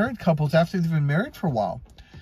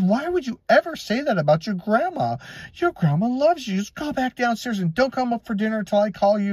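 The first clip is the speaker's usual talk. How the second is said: higher-pitched scolding, acted out; retold angry mom; 4 semitones higher than usual. Mom sending her child back downstairs, imitated scolding. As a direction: tell the kid off like an indignant mother. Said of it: "what are you mad at me for".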